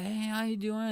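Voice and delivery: high-pitched mock Scottish greeting; imitated Scottish accent. Scottish girls greeting two visiting lads, imitated accent. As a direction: lightly put on a Scottish girl's accent. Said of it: "with their accents and stuff".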